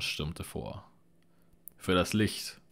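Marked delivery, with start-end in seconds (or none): 1.8-2.6 loud roar as he charges; battle roar. Acted. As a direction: bellow it like a war cry. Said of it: "brüllte er".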